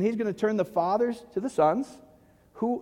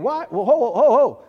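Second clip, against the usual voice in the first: laughing; 4 semitones higher, 8 dB louder than usual. Acted. Disciples' question, laughing in.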